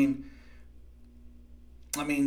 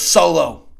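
short mock yell, louder; retold yell; 2 semitones higher, 8 dB louder than usual. Recapping Roman calling Solo over, mock yell. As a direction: imitate a wrestler yelling for his henchman. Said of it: "And he yells".

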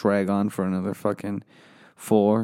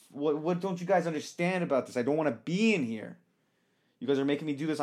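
pitched up, softer, seething rant; angry rant; 4 semitones higher, 4 dB quieter than usual. Acted. Host demanding someone be thrown out, seething higher rant. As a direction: fume at the room, voice strained high. Ranting to get guy removed.

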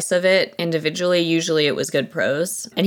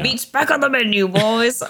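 mock orc voice; 7 semitones higher than usual. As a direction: ham up the orc line, teasing. Quoting the orc line back.

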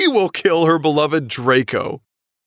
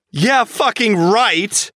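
sarcastic drawl; 7 semitones higher, much slower than usual. Acted. Sarcastic reply to rival.

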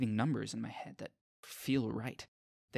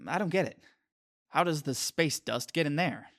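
puzzled; 5 semitones higher, 5 dB louder than usual. A narrator's reading. Nick is confused by the dustpan.

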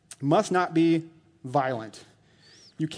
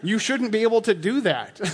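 laughing; 6 semitones higher, 3 dB louder than usual. Real, not acted. Laughing at drinking boast.

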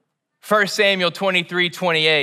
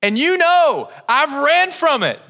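preaching intensity; 8 semitones higher, 3 dB louder than usual. Real, not acted. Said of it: "preaching climax".

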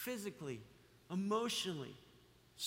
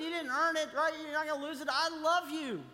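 voicing God; 8 semitones higher, 4 dB louder than usual. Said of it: "God's going".

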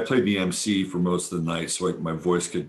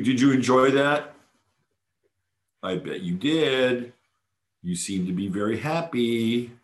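high teasing pet talk; playful high pet voice; 5 semitones higher than usual. Real, not acted. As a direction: tease the cat in a high sweet voice. Talking to the cat Jasper.

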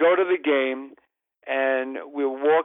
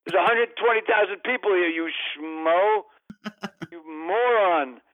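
exasperated scolding; 4 semitones higher than usual. Retold or imitated. Berating Larry over pass.

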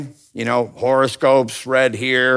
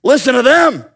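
palm reader; 13 semitones higher, 8 dB louder than usual. Retold or imitated. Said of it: "she's like".

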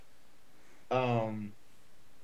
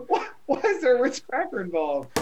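laughing; 11 semitones higher than usual. Real, not acted. Still laughing at the phrase.

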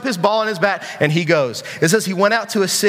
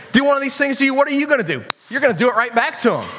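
quick, higher-pitched playful sass; a little sass; 6 semitones higher, faster than usual. Pretend. Preacher showing the girls his comeback, playfully sassy. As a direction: rattle it off with mock attitude. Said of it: "I got a little sass".

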